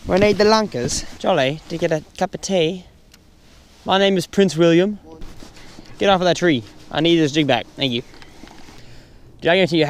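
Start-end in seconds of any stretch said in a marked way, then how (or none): 0.1-8.0 mock British accent, pitched up at first. Angler tries charming fish as a Brit, mock British accent. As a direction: put on a playful British English voice. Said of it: "talk in a British accent".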